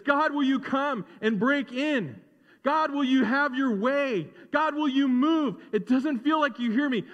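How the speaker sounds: building fervent prayer, rising to a shout. Acted. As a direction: call out to God until he moves. Preacher models fervent prayer.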